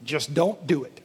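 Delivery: low, slow, flat refusal; blunt nope. Retold or imitated. James brushes off the church, slow and low. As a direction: shut the question down slowly. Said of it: "And James will say".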